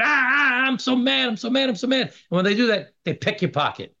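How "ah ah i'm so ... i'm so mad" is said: higher, hammed-up worked-up griping; mock riled-up voter. Politicians get voters worked up, mock riled-up outrage. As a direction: parody a voter stirred up over an issue. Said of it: "get you all excited".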